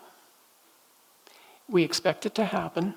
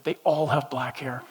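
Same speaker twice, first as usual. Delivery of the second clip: laughing; 3 semitones lower than usual. Real, not acted. Joke at his own description.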